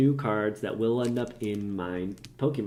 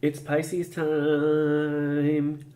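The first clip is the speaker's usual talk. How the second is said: announcer voice; 6 semitones higher, 4 dB louder, much slower than usual. Acted. Theatrical intro announcement.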